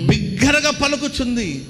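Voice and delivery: slow, high proclamation; proclaiming. Acted. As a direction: stretch the verse out like a street cry. Echoes the reading about crying aloud. (సాగదీసి ఎత్తైన స్వరంతో ప్రకటన)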